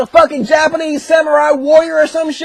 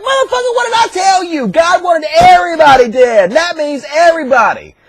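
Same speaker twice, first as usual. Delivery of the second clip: high-pitched mock scolding; pissed-off prophet; 4 semitones higher than usual. Samuel scolds Saul for disobeying God, mock pissed-off. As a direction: start high and indignant, then ease down. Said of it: "the prophet Samuel is pissed".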